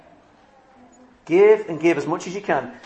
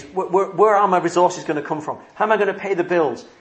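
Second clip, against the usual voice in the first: a touch of worried stammer, higher and quicker; imitating worry; 3 semitones higher than usual. Preacher voicing a listener's money fears, mock worried. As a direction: voice the listener's anxious fretting, lightly. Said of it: "Perhaps your worry is".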